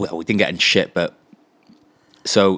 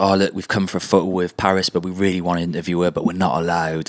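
put-on light Swedish accent, lowered voice; a hint of a Swedish tourist. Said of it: "Are you doing this in a Swedish accent".

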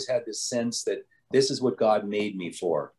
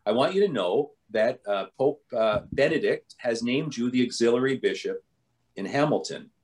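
lightly imitated Italian accent; formal announcement in a mild Italian accent; imitated Italian nuncio, building to the question; 2 semitones higher than usual. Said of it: "a man with a heavy Italian accent".

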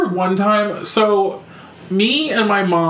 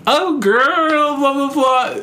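gossipy mom; 8 semitones higher, much slower than usual. Retold or imitated.

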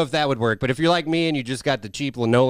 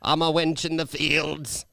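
slow, higher-pitched mock Irish; mock Irish accent; 5 semitones higher, slower than usual. Joking after co-host calls it Irish, mock Irish accent. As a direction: drag it out in hammed-up Irish. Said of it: "That's Irish".

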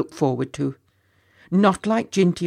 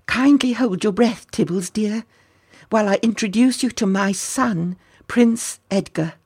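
princess voice; 5 semitones higher than usual. Acted. Princess introduces her baby son.

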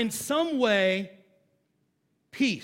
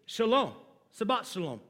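Jewish greeting; faster than usual. Retold or imitated. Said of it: "they say".

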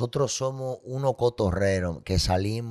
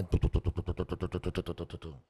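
soft tu tu tu dying away, lower and softer; fading pulse; 4 semitones lower, 9 dB quieter than usual. Retold or imitated. Man imitating his pounding chest as it fades, hushed. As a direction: let the beats trail off into silence.

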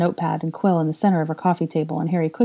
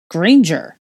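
name barked out louder to cut her off; firm interruption; 3 semitones higher, 8 dB louder than usual. A narrator's reading. Draco cutting off Hermione's protest, firm and louder. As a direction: stop her mid-sentence with her name. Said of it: "Draco interrupted her just as firmly".

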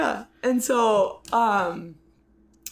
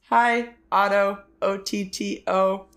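retold greeting; slower than usual. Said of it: "she goes".

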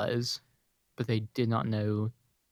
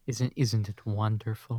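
sultry Shrek voice. Retold or imitated. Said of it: "sensual and sultry Shrek voice".

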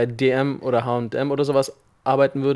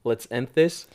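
put-on German accent; 3 dB quieter than usual. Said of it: "todesten deutschen Akzent".

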